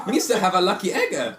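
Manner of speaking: laughing, high mock Jamaican accent; a giggly Jamaican accent. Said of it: "Now do a Jamaican accent".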